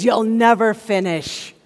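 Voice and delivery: slow, deliberate put-down; condemning inner voice. Acted. Inner critic to an overloaded student, slow condemning voice. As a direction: draw out a mild taunt. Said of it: "This is the voice that says".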